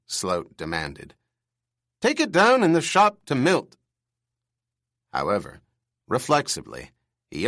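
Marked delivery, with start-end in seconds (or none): 2.0-3.8 put-on high, loud, screeching old man; shrill up top like an aging bird. A narrator's reading. Old boss squawking at his employee in a high screech. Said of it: "only his bird screech voice".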